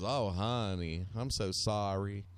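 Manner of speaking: southern lady voice. Retold or imitated. Friend's mom hearing of his divorce, lightly imitated southern lady voice. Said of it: "still has that voice".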